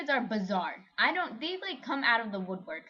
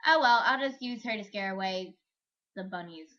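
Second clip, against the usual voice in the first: witch voice; 7 dB louder than usual. Retold or imitated. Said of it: "drag you off stage and be like".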